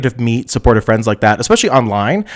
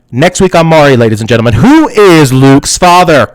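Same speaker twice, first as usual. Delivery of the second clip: mock TV announcer; 5 dB louder than usual. Streamer teasing next week's paternity show, mock announcer. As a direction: build to a stretched-out, louder cliffhanger.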